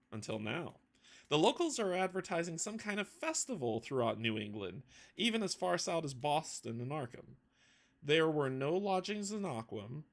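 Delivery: measured journal-reading narration; steady storyteller's reading voice; story narration. Acted. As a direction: read the expedition log like an opening chapter. GM reads the prologue journal.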